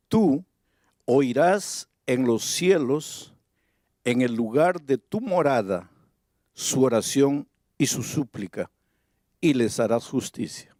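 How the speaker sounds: measured scripture reading with pauses between phrases. Acted. Preacher reads Solomon's prayer to the congregation, measured reading. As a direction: read the prayer out deliberately, phrase by phrase.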